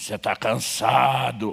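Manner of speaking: hoarse, rough, echoing cavernous voice. Retelling a voice heard from behind in a dark parking lot: imitating a raspy cavernous voice. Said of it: "uma voz rouca e cavernosa ressoa".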